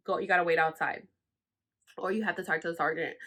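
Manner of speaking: low, fast, dismissive brush-off; super rude. Retold or imitated. Imitating the mean girl at processing, rude. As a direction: imitate a rude officer tossing out instructions. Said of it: "super rude and she never talked to nobody".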